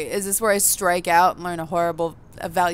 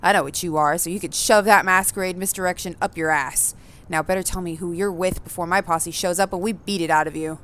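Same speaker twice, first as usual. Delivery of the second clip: mock menacing threat. Hooded vampire threatens the fledgling, lightly hammed menace. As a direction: lean on the intruder with a thug's threats.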